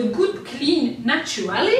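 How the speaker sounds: brand name read slowly with a strong French accent; French accent in English. Real, not acted. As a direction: sound out the English brand carefully, French vowels throughout. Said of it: "Toujours avec mon bel accent". (nom de marque anglais lu lentement avec un fort accent français)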